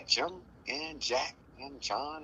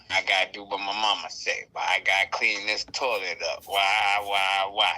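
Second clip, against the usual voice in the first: put-on child whining; 5 dB louder than usual. Child whining building to yell.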